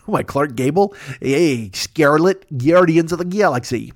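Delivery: put-on a light, barely shifted old-Hollywood Clark Gable voice; Clark Gable impression. Joking about his age to listeners, a faint Clark Gable impression. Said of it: "I just did a Clark Gable imitation".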